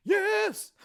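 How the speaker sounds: high, loud singing bear; cartoon bear voice. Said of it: "they be like".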